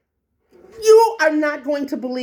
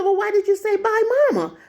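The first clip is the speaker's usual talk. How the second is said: retold challenge; 10 semitones higher, faster than usual.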